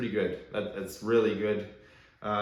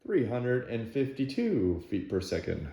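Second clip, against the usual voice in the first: flat robotic number readout; monotone machine-like reading; half robot voice. Real, not acted. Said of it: "Why do I sound like a robot?".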